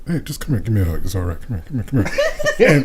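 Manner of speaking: lightly hammed smooth operator, laughing through it; smooth pimp voice. Friend imitates Phil comforting a coworker, mock smooth. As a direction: coax her like a cheesy ladies' man. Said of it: "talking straight pimp stuff".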